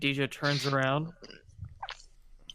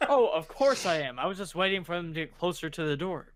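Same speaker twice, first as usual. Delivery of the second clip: breezy cover-up; 4 semitones higher than usual. Acted. Dijo excusing himself to the constable, breezy cover-up. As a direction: protest airily, starting high.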